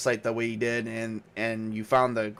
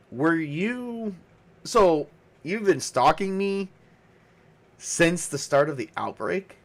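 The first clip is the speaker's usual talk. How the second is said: surprised realisation; 4 semitones higher, slower than usual. Acted. Luke realises she stalked him.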